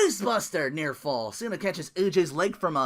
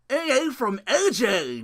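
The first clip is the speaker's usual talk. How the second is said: excited call; 7 semitones higher, 4 dB louder, slower than usual. Real, not acted.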